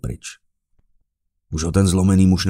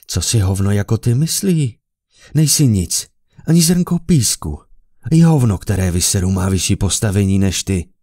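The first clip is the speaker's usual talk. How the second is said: loud, higher scornful rant; contemptuous tirade; 3 semitones higher, 6 dB louder than usual. A narrator's reading. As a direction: crush him with contempt. Emperor insults man at his feet.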